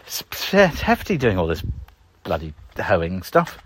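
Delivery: winded, heavy breathing. Real, not acted. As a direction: puff through it tired. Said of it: "I'm out of breath".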